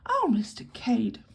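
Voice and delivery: slow, drawn-out protest; a touch of distress in the protest. Acted. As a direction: sound mildly scandalised. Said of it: "protested Miss Taylor, much distressed".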